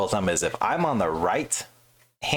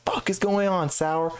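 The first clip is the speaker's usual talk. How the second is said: high mock shout of a surprised boss; gruff sergeant; 12 semitones higher, slower than usual. Tech sergeant bursting out at the noise, mock shout. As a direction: burst in wanting to know what's up. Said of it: "He's like".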